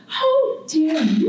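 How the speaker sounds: slow "How dare you", each word drawn out and pressed; graceful, condescending island. Acted. Barbados as a person scolding the artist again, slow stern condescension. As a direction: lean into the reproach, stretching every word. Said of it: "very graceful, but yet condescending".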